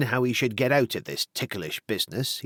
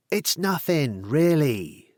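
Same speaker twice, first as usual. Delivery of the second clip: soothing; 5 semitones higher, slower than usual. Acted. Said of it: "said Tony in a soothing voice".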